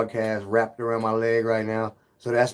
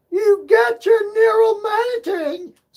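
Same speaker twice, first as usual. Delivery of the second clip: put-on very high, loud girly voice; 8 dB louder than usual. Quoting what Marcus said, the speaker does Marcus's girly Channy voice. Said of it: "in his girl Channy voice".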